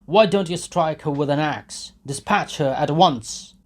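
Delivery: loud, high jeering; callous shout. A narrator's reading. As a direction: urge him to finish it. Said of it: "a third one shouted".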